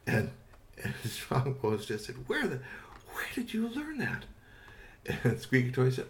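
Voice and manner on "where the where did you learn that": stunned whisper. Acted. Strongbones stunned by the question.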